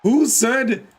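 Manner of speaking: indignant put-on Irish accent. Streamer asks who mentioned being Irish, mock Irish accent. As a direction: challenge them in a hammed-up Irish brogue. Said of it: "no one says the Irish part".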